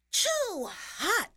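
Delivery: loud, high-pitched storybook exclamation; high, loud yelp of complaint; cried out. A narrator's reading. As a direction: cry it out high and loud as the little girl. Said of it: "she cried".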